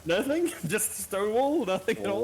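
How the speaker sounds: high, loud mock disbelief; incredulous. Real, not acted. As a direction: act amazed at their silence. GM mocks the players' silence.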